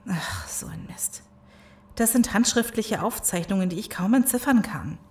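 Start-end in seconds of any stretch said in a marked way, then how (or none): 0.1-1.2 hushed, annoyed whisper of a curse. Acted. Searching notes, whispers a frustrated curse. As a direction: swear under your breath so no one hears. Frustrated find in the dark lab.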